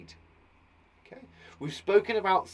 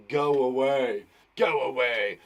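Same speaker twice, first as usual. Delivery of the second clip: lower, menacing shadow voice; hissing shadow; 3 semitones lower, 4 dB louder, slower than usual. Acted. Shadow warning someone off, low mock hiss. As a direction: warn them off as the shadow. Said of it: "the shadow is hissing".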